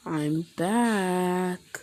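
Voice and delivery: drawn-out, twisted delivery. Acted. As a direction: stretch it out with a twisted edge. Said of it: "in sort of twisted tone".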